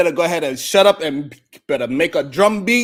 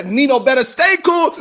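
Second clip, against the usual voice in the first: shouting; 4 semitones higher, 7 dB louder than usual. Real, not acted. Diss rant shouting at rival.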